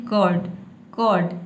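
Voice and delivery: कर्ड said with no r sound, like कड; English कर्ड with a silent r; silent r in curd. Shown as a demonstration. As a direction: say कर्ड dropping the r entirely. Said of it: "र को silent रखना है".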